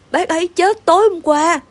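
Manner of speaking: trembling. A narrator's reading. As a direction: break bad news with a touch of a tremble. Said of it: "giọng vẫn run run". (cố bình tĩnh mà giọng run run)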